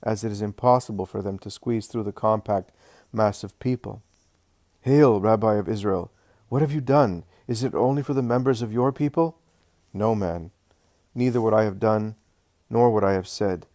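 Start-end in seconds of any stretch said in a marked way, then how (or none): 4.8-9.4 Roman centurion voice. Acted. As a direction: hail the rabbi as a respectful pagan soldier. Roman centurion greets Jesus.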